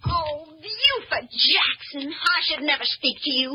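tearful scolding. Acted. Woman sobs after the punch.

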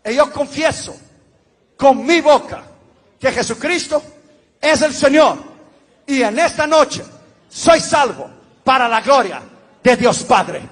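measured, solemn repeat-after-me prayer; leading a prayer. Acted. Pastor leading new converts through the sinner's prayer, solemn and measured.

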